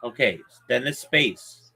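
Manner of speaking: spelling it out. Shown as a demonstration. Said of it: "I'm spelling it for you".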